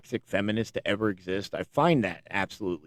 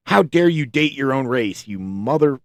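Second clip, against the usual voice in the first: mock outrage; 4 semitones higher, 5 dB louder than usual. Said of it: "It's like".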